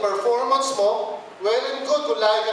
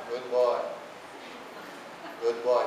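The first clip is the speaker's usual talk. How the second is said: much lower, softer doting praise; mock pet praise; 12 semitones lower, 8 dB quieter than usual. Parent praising a child like a pet, low and soft. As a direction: coo at the child like a good dog.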